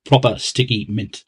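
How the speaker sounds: lightly put-on tipsy Geordie; a touch of boozy Geordie accent; drunk Geordie accent. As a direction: play it as a slightly drunk Geordie. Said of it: "do my drunk Geordie accent".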